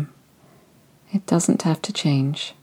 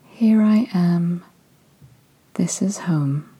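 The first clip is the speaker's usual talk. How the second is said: slow, tender self-reassurance, fading to a whisper; saying it gently to yourself; slower than usual. Shown as a demonstration. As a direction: settle into the words like coming home. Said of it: "say to yourself".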